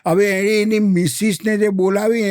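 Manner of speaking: usual speaking voice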